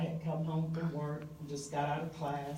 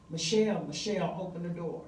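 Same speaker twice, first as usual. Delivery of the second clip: calling out. Retold or imitated. Banging on neighbor's door.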